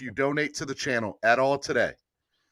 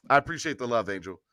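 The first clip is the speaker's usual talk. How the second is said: soft thanks; 4 semitones lower, 4 dB quieter, faster than usual. Real, not acted.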